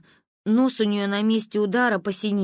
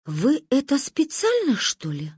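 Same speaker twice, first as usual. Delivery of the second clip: ominous; 5 semitones higher, slower than usual. A narrator's reading. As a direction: draw out СПЕЦИАЛЬНО, then drop menacingly. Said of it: "зловеще выпучилась".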